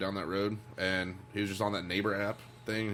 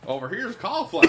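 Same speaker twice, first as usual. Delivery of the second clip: put-on southern redneck accent; 12 semitones higher, 8 dB louder than usual. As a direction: play a proud country farmer showing crops. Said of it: "the most southern redneck fucking accent".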